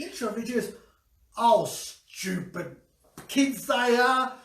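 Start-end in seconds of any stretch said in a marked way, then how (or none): 1.4-4.3 lightly voiced grandma. Grandma answers, slow.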